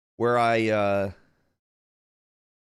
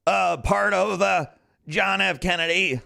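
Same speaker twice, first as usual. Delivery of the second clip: higher, louder Trump voice; Trump impression; 7 semitones higher, 4 dB louder than usual. Streamer playing Trump for the stream, mock Trump voice. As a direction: imitate Trump holding forth.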